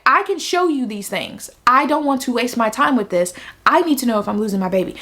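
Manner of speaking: firm, mildly impatient insistence; insistent retold plea. Patient retells confronting the nurse, insistent. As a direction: press the point, with mild exasperation. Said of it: "I was not talking like that".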